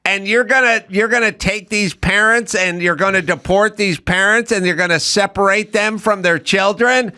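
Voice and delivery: high, shrill mocking questioner; mock congresswoman. Mocking yentas grilling Homan, high outraged. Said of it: "they're like".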